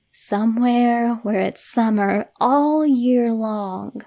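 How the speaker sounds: slow, drawn-out luring voice; eerie slow lure. Acted. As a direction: tempt the child, slow and sweet. Counselor's eerie promise, quoted.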